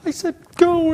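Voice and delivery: high, frantic mock yelling; hammed-up hysterical shouting at the devil; going nuts. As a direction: mimic someone crying out commands in desperation. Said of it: "they go nuts and".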